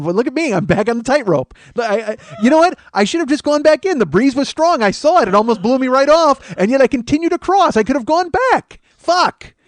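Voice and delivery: high-pitched, strained frantic ranting; mock panic. Comic back on the racism tightrope, mock frantic squeal. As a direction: play a tightrope walker nearly blown off.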